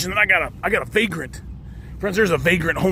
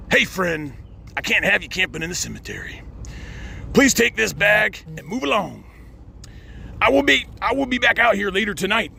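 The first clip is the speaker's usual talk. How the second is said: reading a note aloud; 2 semitones higher than usual. Acted. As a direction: read the letter out with stiff courtesy. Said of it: "I'm gonna read you the nice little note".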